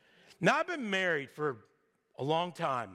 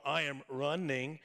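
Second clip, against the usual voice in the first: Forrest Gump impression; 7 semitones lower, 3 dB quieter than usual. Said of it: "That's my Forrest Gump".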